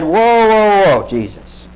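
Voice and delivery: a sudden alarmed burst, then dropping away; alarmed protest. Acted. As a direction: Peter blurts out a startled objection. Peter rebuking Jesus.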